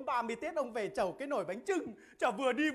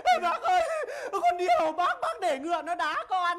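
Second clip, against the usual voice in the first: mock loud complaint; 5 semitones higher, 8 dB louder than usual. Clown cries out complaint.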